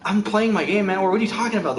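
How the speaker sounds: a touch of put-out impatience; mock irritation. Gamer interrupted by talk about the weather, mildly mock annoyed. Acting out Trinity irritated while gaming.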